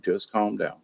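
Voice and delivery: calm and quiet. Shown as a demonstration. Moderator telling fighters to settle, soft and hushed. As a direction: ease it out gently, almost under breath. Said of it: "You just have to say the same thing".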